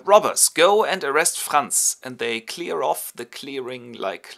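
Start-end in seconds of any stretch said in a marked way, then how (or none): 0.0-2.0 slow, loud command to his men; commanding order. Acted. The robber chief sending his robbers after Franz, loud and slow. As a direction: order the gang out, slowly and loudly.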